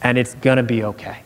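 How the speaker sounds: calm. Retold or imitated. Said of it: "he would have just calmly said".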